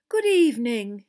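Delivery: loud, hearty hello; beaming greeting. Acted. Ghost welcoming friends to the table, beaming. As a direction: greet them through a big smile. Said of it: "he said, beaming at them".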